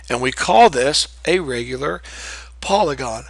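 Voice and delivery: words stretched by a yawn. Real, not acted. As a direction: talk through a yawn. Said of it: "Sorry for the yawn".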